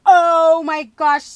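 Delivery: loud, slow gasping sobs of joy; overwhelmed with gratitude, happy tears; happy crying. Real, not acted. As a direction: choke up with delight. Overwhelmed by the final gift.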